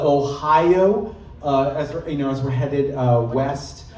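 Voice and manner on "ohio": slow Ohio accent, drawn out. Shown as a demonstration. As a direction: stretch Ohio in a Midwest accent. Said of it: "they speak in platitudes".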